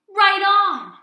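loud, high burst of delight; thrilled cat cheering; excited exclamation. Acted. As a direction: shout it with joy. Pete exclaims through sunglasses.

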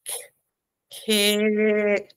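"kick" drawn out long; "K, kick" held slowly; stretched out. Shown as a demonstration. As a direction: stretch the sounds. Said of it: "Stretch it out".

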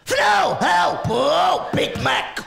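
loud, drawn-out mock Vietnamese accent; mock South Vietnamese. Comic demonstrating the language of love, mock Vietnamese accent. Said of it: "actual language of love is, in fact, South Vietnamese".

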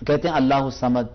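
teacher shows the mistaken "الصمد" with a light س sound; wrong way said. Shown as a demonstration. Quran teacher showing students the wrong Samad. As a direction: demo of the wrong Samad with a thin س. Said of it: "یہ نہیں ہے اللہ الصمد".

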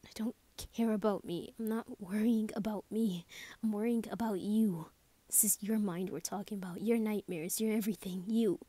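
worried, pressing insistence, a little forceful; earnest insistence. Acted. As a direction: press the point with loving urgency.

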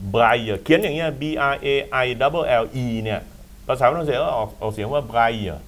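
ไบรเยอร์ said the French way, brai-yer; French pronunciation. Shown as a demonstration. Host teaches the French name of Louis Braille, ไบรเยอร์.

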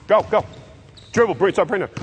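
loud coaching calls; shouting to players. Real, not acted. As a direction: call it out across the court. Coach shouting during live drill.

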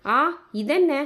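high, sudden cry of alarm; jolted by something strange; a startled "what is this?"; startled gasp. Acted. Soul suddenly leaves the body.

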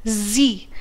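"जी" as a separate syllable with long ee; isolated "जी", buzzed z-like start into ee; syllable sounded out. Shown as a demonstration. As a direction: sound out "जी" on its own. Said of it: "अमेजिंग को हम pronounce करते हैं".

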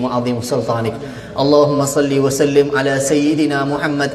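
chanted supplication, steady rhythm; Malay-style du'a recitation, pleading; closing prayer. Acted. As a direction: lead the gathering in earnest prayer.

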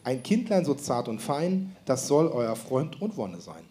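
slow verse recitation. Shown as a demonstration. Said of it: "Ich wiederhole nochmal".

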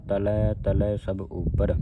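ਤਲੈ ਤਲੈ each ending in an open "ai"; slow reading, ਤਲੈ sounded "ta-lai"; double-vowel ending. Shown as a demonstration. Teacher reminds congregation of the vowel signs, slow open endings on ਤਲੈ. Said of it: "ਜਿਹੜਾ ਹੈ ਇਹ ਦਲਾਵਾਂ ਲੱਗੀਆਂ".

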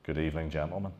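a soft-spoken Northern Irish greeting from the doorway; understated Northern Irish voice, calm and polite; Northern Irish accent. Retold or imitated. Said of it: "with a, a Northern Irish accent".

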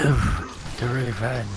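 slow, hammed-up dying hero; overacted death scene. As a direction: deliver last words slowly, mock-tragic. Dying teammate's last words.

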